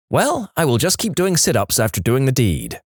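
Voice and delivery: put-on resigned, sighing girl voice; sighing teen girl. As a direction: sigh it out like a clueless girl. Girl sighs and says.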